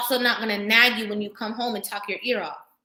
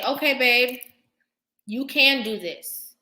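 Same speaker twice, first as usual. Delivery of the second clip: encouraging wife; 3 dB louder, slower than usual. Retold or imitated. Wife voicing pep talk to man.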